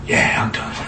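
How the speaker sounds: exhausted whispered reply with a small laugh; spent whisper. Acted. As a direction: whisper it like all fight is gone. Moses answers after venting.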